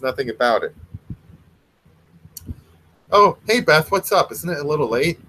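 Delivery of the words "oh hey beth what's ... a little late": put-on surprised boy. Timmy greets sister.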